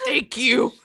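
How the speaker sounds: loud, overly polite thanks; a pushy, too-polite thank you; aggressively polite. Retold or imitated. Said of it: "Aggressively polite".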